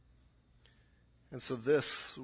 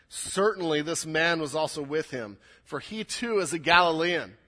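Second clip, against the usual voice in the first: louder, emphatic accusation; insistent accusation; 2 semitones higher, 6 dB louder than usual. Acted. Accuser saying Peter was with him, insistent. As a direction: insist on it, landing hard on the end. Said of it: "it's much more insistent".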